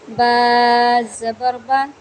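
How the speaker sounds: slow, loud syllable-by-syllable spelling; spelling drill. Shown as a demonstration. Teacher spelling out a letter for students, slow and loud. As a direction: spell it out slowly and clearly for a beginner. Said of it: "जैसे ये देखें".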